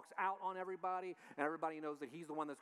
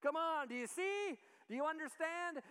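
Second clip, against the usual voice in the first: raised, exasperated voice; 10 semitones higher than usual. Retold or imitated. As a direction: come on, get it already. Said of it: "a little bit of raising his voice".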